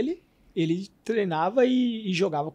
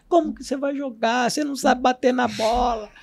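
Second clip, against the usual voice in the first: higher-pitched scolding of players; mild mock yell; 4 semitones higher than usual. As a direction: retell a coach's yell without real force. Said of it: "Ele gritava com os jogadores". (grito imitado de técnico, mais agudo)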